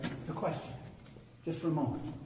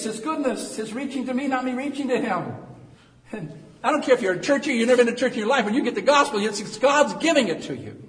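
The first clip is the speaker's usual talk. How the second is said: loud, high-pitched pulpit delivery; full-force preaching; 11 semitones higher, 10 dB louder than usual. Real, not acted. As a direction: preach it out to the whole church.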